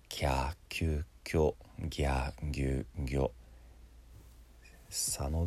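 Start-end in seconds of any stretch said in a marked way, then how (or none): 0.1-3.3 "キャーキューキョ、ギャーギューギョ" with a Y glide; Y付きの発音. Shown as a demonstration. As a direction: chant "キャーキューキョ、ギャーギューギョ" as a drill, long vowels first. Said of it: "Yをつけるやつだから". (「キャーキューキョ、ギャーギューギョ」を手本として唱える)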